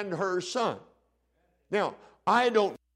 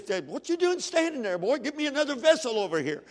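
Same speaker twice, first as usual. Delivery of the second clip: put-on high, excited mama ordering her boy; 6 semitones higher than usual. Widow wants another vessel over here, excited. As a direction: pitch it up as an excited mother. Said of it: "Mama's excited and says".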